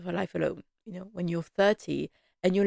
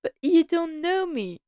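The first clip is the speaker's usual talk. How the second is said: mock Mary's stunned disbelief; shocked Mary; 9 semitones higher than usual. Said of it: "Mary's face like".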